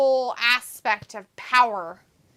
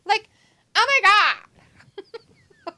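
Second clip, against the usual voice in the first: put-on Valley girl voice; 3 semitones higher than usual. Shown as a demonstration. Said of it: "sound like a Valley girl".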